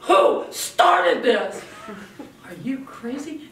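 loud, slow, rasped-out mock demand; mock angry demand. Shown as a demonstration. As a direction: storm in as the wrong kind of parent. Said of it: "you run in the room and you go".

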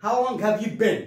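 "been" with a short e, stressed; BEEN said like "ben". Shown as a demonstration. Teacher modelling the question, "been" like "ben". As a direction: end on "been" rhyming with "ten". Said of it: "تنطق been".

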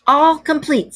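high, loud triumphant ring. A narrator's reading. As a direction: announce it like a victory. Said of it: "said the Toad triumphantly".

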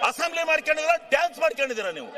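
indignant yell; real outraged shout; angry shout. Real, not acted. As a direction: bark the accusation across the floor. Heckling opponents in assembly.

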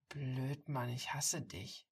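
playfully grumbling, slowing on the last words; a touch of fake irritation, slowed down; mock-annoyed grumble. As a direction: pretend to be annoyed, teasing him. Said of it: "grummelt sie gespielt genervt".

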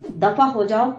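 loud, angry dismissal through clenched teeth; through gritted teeth. Acted. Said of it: "دانت پیستے ہوئے کہا".

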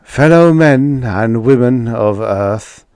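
a stately Martian orator greeting Earth; clear cultured alien. A narrator's reading. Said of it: "exquisitely clear and cultured".

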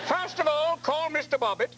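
put-on high fluty Julia Child voice. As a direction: keep the cooking-show lady going. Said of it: "a little bit Julia Childs".

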